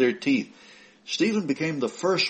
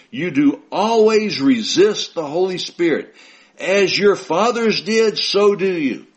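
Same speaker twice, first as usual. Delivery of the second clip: slow, louder, higher scripture rebuke; forceful rebuke; 5 semitones higher, 6 dB louder, slower than usual. Acted. Preacher voicing Stephen rebuking the accusers, forceful. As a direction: hurl the accusation at them.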